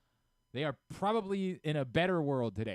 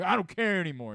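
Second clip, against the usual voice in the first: mock sulking manager; 5 semitones higher, 9 dB louder than usual. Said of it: "he's like".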